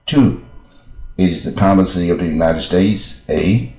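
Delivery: slow, deliberate reading with breaks between phrases; slow, clear read-aloud. Shown as a demonstration. Teacher reading a law aloud for English learners, slow and clear. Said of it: "我这速度念不要快，以清楚为准嘛".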